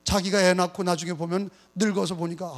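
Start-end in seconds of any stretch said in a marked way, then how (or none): none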